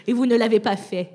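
loud scolding villain voice; Lord of Darkness. Acted. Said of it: "si tu veux jouer plus classiquement".

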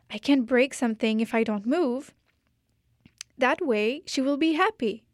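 lightly voiced stubborn girl; firm, resolved little vow; girl declares she will stay still; defiant declaration.

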